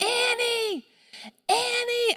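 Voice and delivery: mock top-of-the-lungs, very high, drawn-out scream. Searching a store for a lost child, retelling screaming at the top of their lungs. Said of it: "I start screaming at the top of my lungs".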